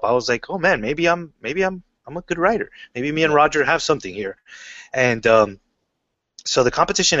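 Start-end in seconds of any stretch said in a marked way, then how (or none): 0.5-4.3 amped up. Retold or imitated. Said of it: "kinda got me, you know, all amped up".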